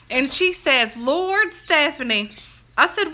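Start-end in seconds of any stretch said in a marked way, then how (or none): 1.0-2.3 higher, mildly wailed lament; retold crying. Grandma calling to her granddaughter in tears, mock crying. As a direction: imitate an upset grandmother's cry. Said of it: "she starts a crying".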